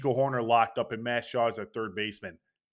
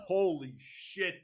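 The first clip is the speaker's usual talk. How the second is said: laughing; 5 semitones higher, 8 dB quieter, slower than usual. Real, not acted. Laughing at own voice crack.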